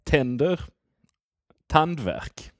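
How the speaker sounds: Tänder with two tops, tandvärk falling at the end; Swedish word pair. Shown as a demonstration. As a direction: read Tänder then tandvärk, showing the tones. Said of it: "take a word with two syllables".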